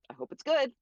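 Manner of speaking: high, squeaky, anxious little voice; nervous hope. Retold or imitated. Nervous inner thought about big game.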